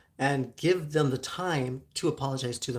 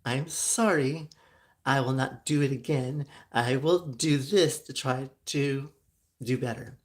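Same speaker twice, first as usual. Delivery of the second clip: slow, earnest "I'm sorry"; mean every word, slowly; a gently slowed, heartfelt sorry; sincere apology; slower than usual. Shown as a demonstration. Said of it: "apologies do require a sincere".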